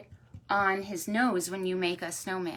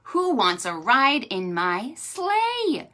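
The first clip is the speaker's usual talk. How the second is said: louder, slow storybook invitation; inviting story horse; 3 semitones higher, 5 dB louder, slower than usual. Acted. Mister Horse offering a sleigh ride, loud slow invitation. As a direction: call out slowly to gather riders.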